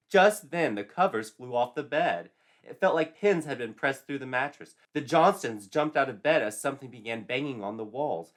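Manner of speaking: loud, sudden storytelling burst; dramatic burst. A narrator's reading. Narrator springing the scare on listeners, loud and urgent.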